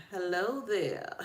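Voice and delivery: lightly imitated signature hello; Tabitha Brown. Host greeting viewers with a borrowed catchphrase, light impression. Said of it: "As Tabitha Brown would say".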